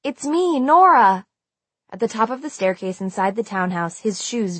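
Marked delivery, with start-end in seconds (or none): 0.0-1.3 high call building louder; urgent, high-pitched call. A narrator's reading. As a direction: make yourself heard through the glass. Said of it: "I called through the glass".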